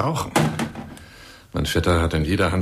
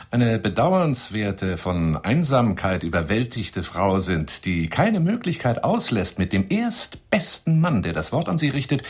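slow mockery; 4 semitones higher, slower than usual. Mocking the suspicious listener.

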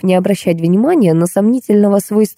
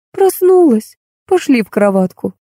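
tender; 6 semitones higher than usual. A narrator's reading. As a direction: coax a child affectionately back to bed. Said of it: "ласково сказала Роза Леопольдовна". (ласково, уговаривая ребёнка)

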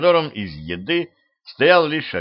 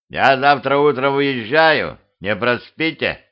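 offended; 3 semitones higher, 4 dB louder than usual. Acted. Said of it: "обиженно сказал дед".

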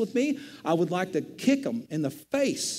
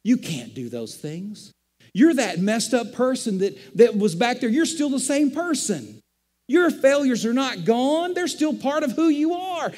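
taunting enemy voice; 2 semitones higher than usual. Retold or imitated. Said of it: "he can go".

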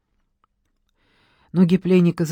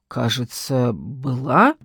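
тише, ниже, с вопросом в конце; робко, неуверенно переспросить; 4 semitones lower, slower than usual. A narrator's reading. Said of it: "неуверенно ответил пленник". (пленник неуверенно отвечает женщине, тихо и с вопросом)

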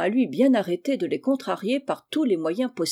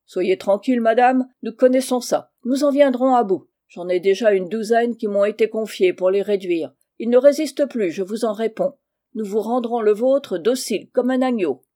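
loud, emphatic boasting; confident assurance; 5 dB louder than usual. Acted. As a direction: assure the client forcefully. Holnick boasts of taming boys. (assurance vantarde et appuyée)

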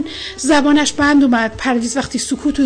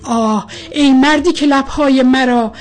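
poem recitation; 3 semitones lower than usual. A narrator's reading. Recites a love poem aloud.

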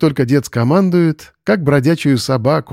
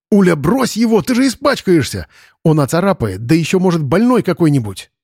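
alarmed protest; 5 semitones higher than usual. Acted.

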